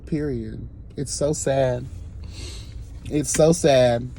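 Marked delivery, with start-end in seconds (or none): 3.1-4.1 "so" drawn out long, slow and heavy; slow sad repeat. Real, not acted. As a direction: let "so" sink, slower than the first take. Slower repeat of same words.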